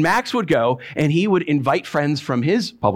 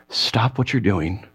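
tender plea; 5 semitones lower, slower than usual. Acted. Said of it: "He's essentially saying".

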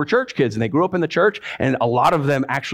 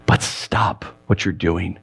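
soft plea; 8 semitones lower, slower than usual. Acted. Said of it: "He's essentially saying".

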